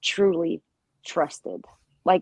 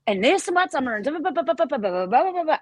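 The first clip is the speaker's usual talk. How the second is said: mock chatter; 6 semitones higher, faster than usual. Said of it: "how she was just".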